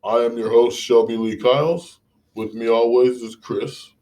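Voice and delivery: show host intro. Acted. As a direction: open the podcast like a host.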